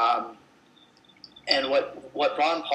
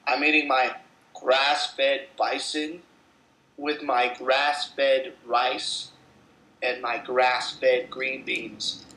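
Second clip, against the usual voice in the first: talking with a mouthful; slow words round a bite of food; chewing while talking; slower than usual. Real, not acted. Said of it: "Sorry, I'm chewing".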